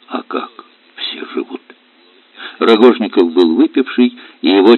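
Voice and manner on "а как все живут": very soft, half-whispered bitterness; muttered retort. Acted. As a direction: answer under the breath. Bitter muted reply.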